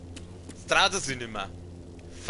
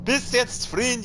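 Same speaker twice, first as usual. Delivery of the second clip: exasperated shout; 9 semitones higher, 3 dB louder than usual. Real, not acted. Fed-up yell at teammate.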